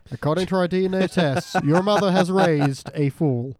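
lightly hammed-up TV host verdict; a hint of daytime-TV announcer; mock talk-show reveal. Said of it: "very weird episode of Maury Povich".

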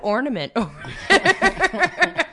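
high, loud mocking voice with a laugh; mocking an old-fashioned speaker, giggling; mock offensive quote. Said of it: "Be like".

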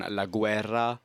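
"la guerra" said in Italian, la GWER-ra; "la guerra" as an Italian word; Italian pronunciation. Shown as a demonstration. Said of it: "and in Italian".

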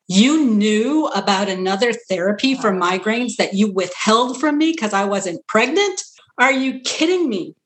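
indignant. Retold or imitated. Patient confronting her neurologist, imitating indignant disbelief. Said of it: "she was indignant".

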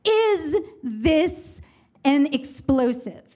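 mildly angry guard, words spaced apart; acted-out irritated interrogation; growing anger. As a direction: demand it sternly, pausing mid-question. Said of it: "getting angry and angry with me".

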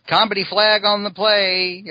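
high, slow cartoon spider squeak; chibi spider voice. Chibi spider referee pops up.

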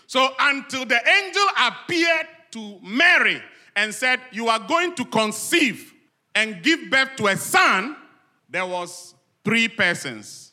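loud, high pulpit delivery; forceful preaching. Real, not acted. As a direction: proclaim it to the whole congregation.

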